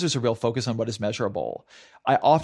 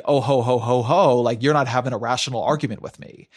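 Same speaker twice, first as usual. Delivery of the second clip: mocking laugh; 4 dB louder than usual. Mocking a dismissive rationalist.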